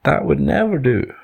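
high-pitched, mildly yelled objection; mock yell. Two animals dismiss kangaroo's idea, high mock yell. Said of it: "yelled the other two in unison".

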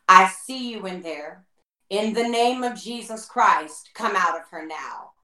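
slow, deliberate retold command; dead sure. Minister casting out a demon, imitated as dead sure. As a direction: imitate her certainty, taking it slowly. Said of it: "as sure as she can be".

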